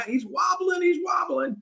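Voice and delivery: high, rising shout of wobbling; excited cry. Retold or imitated. Grandfather telling of grandson's first bike ride, excited. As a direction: cheer him through the wobble.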